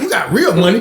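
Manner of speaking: laughing disbelief. Real, not acted. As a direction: ask it through a laugh. Laughing at Popcorn's claim.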